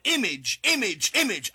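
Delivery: each image hit with weight; stressed word. Shown as a demonstration. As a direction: drive home the word image. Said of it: "I'm emphasizing the word image".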